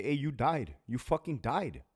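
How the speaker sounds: hammed-up scolding of an overdosed inmate; mock scolding shout.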